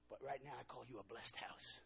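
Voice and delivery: hushed whisper calling the house blessed. Retold or imitated.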